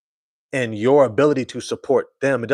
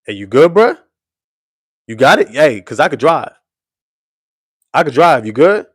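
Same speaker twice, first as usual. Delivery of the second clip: higher, louder, anxious offers to take the wheel; worried passenger; 3 semitones higher, 7 dB louder than usual. Retold or imitated. Passenger offering to drive, higher and worried. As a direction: press him gently but urgently. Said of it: "That's how we gotta look at Cade".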